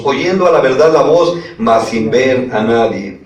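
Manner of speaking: emphatic reading from the pulpit; scripture reading. A narrator's reading. Preacher reads Saulo's blinding to the congregation, emphatic scripture reading. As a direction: read the verse out firmly to the congregation.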